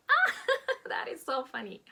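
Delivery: bursting into a high, loud laugh. Pretend. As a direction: laugh off the insult lightly. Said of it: "Smiling, laughing".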